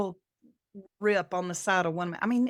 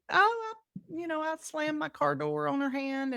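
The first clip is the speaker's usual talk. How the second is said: flustered friend; 5 semitones higher, 3 dB quieter than usual. Retold or imitated. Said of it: "And Michelle was like".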